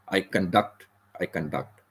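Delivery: "conduct" as con-DUCT; stress on DUCT. Shown as a demonstration. Teacher drills the verb, "conduct" stressed on the second syllable. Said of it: "The D U C T is more".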